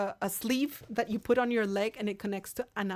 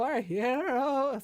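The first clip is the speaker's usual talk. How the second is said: drawn-out robotic autotune, higher; slow autotune cyborg voice; 4 semitones higher, 3 dB louder, much slower than usual. Shown as a demonstration. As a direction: stretch it slowly like an autotuned cyborg. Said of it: "So I can sound like a cyborg".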